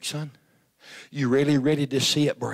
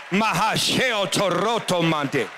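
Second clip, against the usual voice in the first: slow, rhythmic tongues prayer; speaking in tongues; 2 semitones higher, slower than usual. Real, not acted. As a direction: pray in tongues, unhurried. Praying in tongues.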